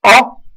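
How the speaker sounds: "O" open, as in créole; loud, sonorous open "O". Shown as a demonstration. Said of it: "le O sonore, comme dans créole".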